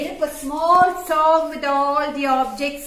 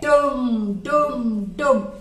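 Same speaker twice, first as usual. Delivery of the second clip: drum sound; 2 semitones lower, much slower than usual. Shown as a demonstration. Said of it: "what sound do you get".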